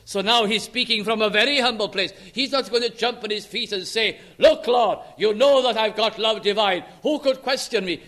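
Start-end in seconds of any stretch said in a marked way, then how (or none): 4.4-8.0 loud, brash boast, chest out; boastful Peter. Pretend. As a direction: brag to the Lord in a loud voice. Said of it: "He's not speaking like that anymore".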